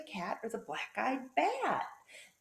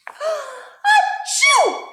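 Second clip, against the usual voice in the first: sudden loud, high achoo; gasp, then explode into a sneeze; big acted sneeze; 15 dB louder than usual. Flea can't cover his snout, explosive mock sneeze.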